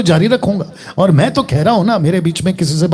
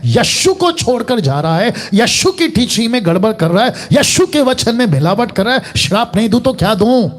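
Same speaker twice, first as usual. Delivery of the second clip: mildly indignant acted retort; पौलुस का गुस्सा; 4 semitones higher than usual. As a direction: justify the curse with mounting, restrained indignation. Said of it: "आपको इतना गुस्सा क्यों आ रहा है". (हल्के गुस्से में पलटकर जवाब)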